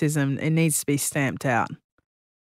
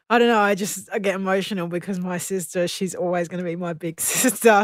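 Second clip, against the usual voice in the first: emotional; 3 semitones higher than usual. Real, not acted. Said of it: "sorry for getting emotional".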